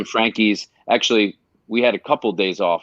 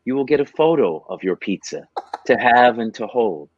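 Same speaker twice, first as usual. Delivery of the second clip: charity ad pitch. Acted. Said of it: "make a commercial for you".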